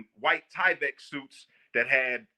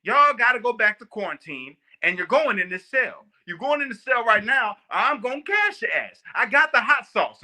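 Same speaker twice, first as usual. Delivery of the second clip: stern sergeant; 7 semitones higher, 4 dB louder than usual. Retold or imitated. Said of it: "She goes".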